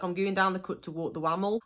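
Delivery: quick, broad local "wammel"; Black Country example. Shown as a demonstration. Walking the dog by the canal, broad Black Country. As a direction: rattle it off in dialect. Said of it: "So, like".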